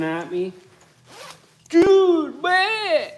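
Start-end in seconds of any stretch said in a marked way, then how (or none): 1.7-3.1 exclaiming. Real, not acted. Exclaims at chat.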